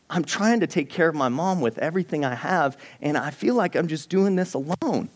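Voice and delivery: a retold prayer of someone at the end of their rope; frustrated prayer. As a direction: pour out the exhaustion, voice climbing.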